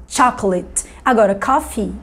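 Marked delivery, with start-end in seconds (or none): 0.1-0.9 "chocolate" em inglês, final "let" breve; i final curto. Shown as a demonstration. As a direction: encurte a última vogal de "chocolate" em inglês. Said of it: "Esse let do final é um I curto". ("chocolate" à inglesa, com i curto no fim)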